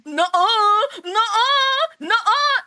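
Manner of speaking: high, loud repeated refusals; loud hammed-up no-no-no; exaggerated refusal. Performs her slide's catchphrase.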